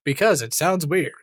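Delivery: hammed-up stress on "weird"; "weird" given a showy, emphatic swing; exaggerated emphasis. Shown as a demonstration. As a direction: lean hard into "weird" in a put-on voice. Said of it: "when you put emphasis on it like that".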